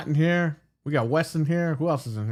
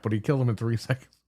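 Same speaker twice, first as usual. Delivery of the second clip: laughing; 3 semitones lower, faster than usual. Real, not acted. Retelling the boss fight, laughing.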